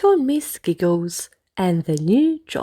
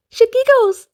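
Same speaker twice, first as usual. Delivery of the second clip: giggly; 13 semitones higher, 5 dB louder than usual. A narrator's reading. Narrator giggles the word.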